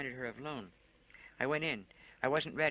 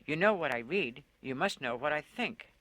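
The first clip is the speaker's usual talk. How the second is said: still screaming; 3 semitones higher, 6 dB louder than usual. Acted. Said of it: "I screamed at him".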